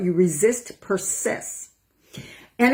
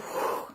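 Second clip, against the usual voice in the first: soft exhale; 10 dB quieter than usual. Shown as a demonstration. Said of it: "I'm choosing to breathe it out".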